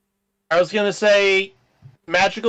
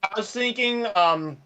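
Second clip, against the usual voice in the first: breaking up call audio; bad connection; 4 dB quieter than usual. Real, not acted. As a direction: voice cutting in and out. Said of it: "You're breaking up".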